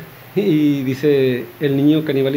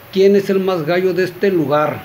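mildly raised, higher-pitched tough-guy challenge; shouted challenge; 4 semitones higher than usual. Acted. Gunslinger challenges the whole cantina, mild mock shout. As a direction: call out the whole room, half-shouted. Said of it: "y grita".

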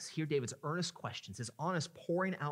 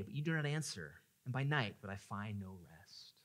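pained lament; 5 semitones lower than usual. Acted. David finds no answer from God, fading pained lament. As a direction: let the pain sink away to softness. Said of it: "as he expresses his pain before God".

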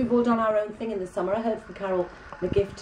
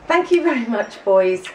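hammed-up thanks; 4 semitones higher, 8 dB louder than usual. Thanking crew walking in, mock grand.

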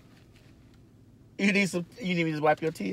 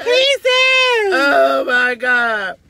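loud, very high shriek through laughing tears; laughter-cry shriek, high and loud; 6 semitones higher, 9 dB louder, much slower than usual. Real, not acted. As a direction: scream it out while crying laughing.

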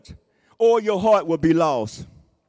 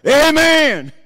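laughing amen; 6 semitones higher, 9 dB louder than usual. Real, not acted. Congregation response after own joke.

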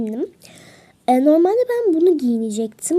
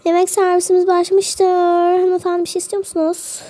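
flight attendant; 4 semitones higher than usual. Pretend. Plays flight attendant serving food.

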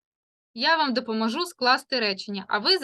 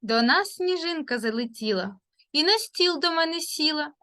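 put-on lilting children's verse, slowed at the end; poem recital. Teacher reciting a winter rhyme to children, lilting. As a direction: recite the snowflake rhyme for little ones.

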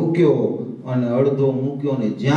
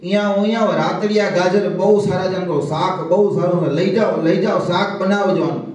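calling out; 6 semitones higher than usual. Retold or imitated. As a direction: call the brahmachari from afar, fast. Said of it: "બ્રહ્મચારીને રાડ પાડી".

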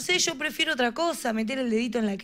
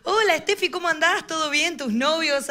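aunt's voice; 4 semitones higher than usual. Retold or imitated. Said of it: "Le dice a mi hermana".

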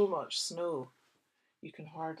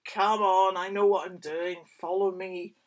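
confident dog voice; 10 dB louder than usual. Acted. Character Bess voiced in story.

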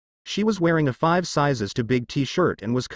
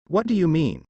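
put-on puzzled, higher boyish voice; faked confusion; 3 semitones higher than usual. A narrator's reading. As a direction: play dumb, innocent question. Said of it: "expertly faked confusion".

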